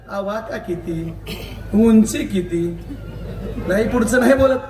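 slow, drawn-out jeer; mocking taunt. Real, not acted. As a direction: belittle them, dragging out each word slowly. Taunting a rival's stature. (टोमणा मारत, शब्द लांबवून)

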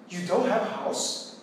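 slow, rising on "don't" in surprise; teacher showing surprised question intonation to students. Shown as a demonstration. Surprised rising question. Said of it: "você usa a entonação de pergunta".

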